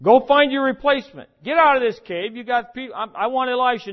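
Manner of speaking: loud, high bossy tycoon firing someone; Donald Trump impression. Preacher imagining God firing Elijah, as a loud mock tycoon. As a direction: bark it like a TV boss, starting at a shout and easing down. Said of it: "Did he get a Donald Trump?".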